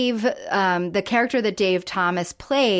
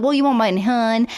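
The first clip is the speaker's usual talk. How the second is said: Southern waitress. Retold or imitated. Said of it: "She's like".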